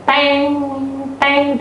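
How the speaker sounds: long, sustained bell tolls; imitated church bell. Church bell tolling at twelve, drawn-out imitation. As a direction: draw each toll out like a bell. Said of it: "Kalau di tempat saya".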